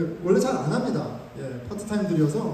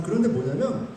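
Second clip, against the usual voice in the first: usual speaking voice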